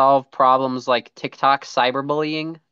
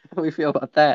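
lightly voiced Bogart-style gumshoe; noir detective; faster than usual. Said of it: "How do we feel about that one".

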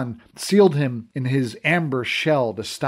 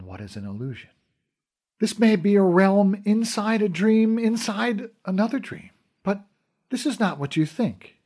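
lightly voiced queen; 3 semitones higher than usual. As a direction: speak with gentle royal authority. Fawn the queen explains reality.

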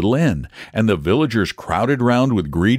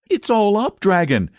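put-on high, urgent boyish shout; 12 semitones higher than usual. A narrator's reading. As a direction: call out in alarm from afar. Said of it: "he shouted".

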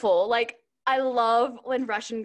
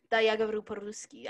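deeper Russian voice; 3 semitones lower, faster than usual. Shown as a demonstration. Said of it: "I think I go deeper when I speak".

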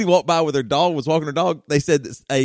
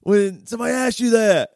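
higher, a bit raised, incredulous; exasperated outburst; 7 semitones higher than usual. Retold or imitated. Retelling his baffled reply to the stranger, as a mild mock shout. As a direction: blurt it out in disbelief. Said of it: "And I was like".

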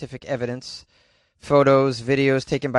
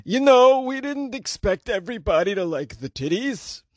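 put-on higher old Jewish man, squeaky start; 7 semitones higher than usual. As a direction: play the church rep as an old Jewish man. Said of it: "sound like an old Jewish man".

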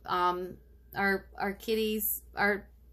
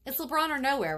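playful catchphrase; 6 semitones higher, faster than usual. Acted. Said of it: "catchphrase set against repeat".

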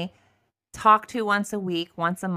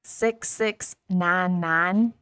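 put-on slow, drawn-out Southern accent; imitated Southern accent, very slow; thick Southern accent; much slower than usual. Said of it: "it came out like this".

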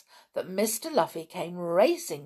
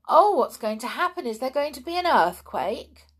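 alarmed, higher and quicker; frightened; 6 semitones higher, 5 dB louder, faster than usual. A narrator's reading. Girl hearing rumbling underground, frightened.

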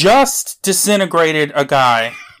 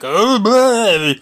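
higher mock blurting; mock villain cry; 6 semitones higher than usual. Mimics villain cut off mid-speech.

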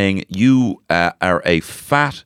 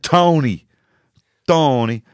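Dublin accent; 5 semitones higher, slower than usual. Shown as a demonstration. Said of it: "Say it".

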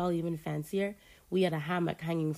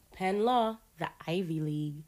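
mock important announcement; mocking grandeur. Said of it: "she stressed ... in a mocking tone".

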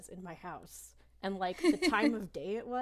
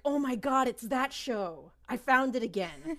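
louder, gushing childhood delight, replayed; imitating her younger self finding the show again; retold excitement; 4 semitones higher, 6 dB louder than usual. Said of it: "and I was like".

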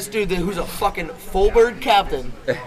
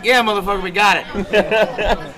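laughing reply; 3 semitones higher, 5 dB louder, slower than usual. Retold or imitated. Crew answers the seaman, laughing.

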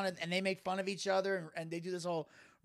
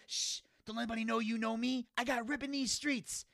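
higher, softened secretive voice; mock hushing; 4 semitones higher, 6 dB quieter than usual. Street character shushing Squidward, hushed mock secrecy.

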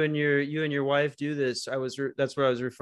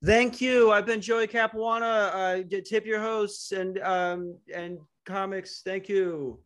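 comic sign-off; 6 semitones higher, slower than usual. Retold or imitated. Mimicking his standup sign-off.

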